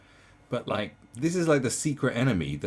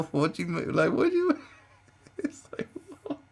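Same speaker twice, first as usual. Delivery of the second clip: high, loud disbelief; jumping high in confusion; squeaky baffled outburst; incredulous; 5 dB louder than usual. Real, not acted.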